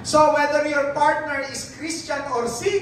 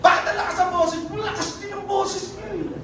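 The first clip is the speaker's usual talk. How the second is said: higher, sassy answering back; mock back-talk; 7 semitones higher, 4 dB quieter than usual. Preacher mimicking children talking back, sassy. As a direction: play a cheeky quarreling child. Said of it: "Hindi yung".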